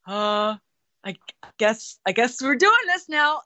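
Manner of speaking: high, halting, uneasy resolve; mock-panicked reluctance, high and hesitant; nervous hesitation. Reliving panic at untried finale.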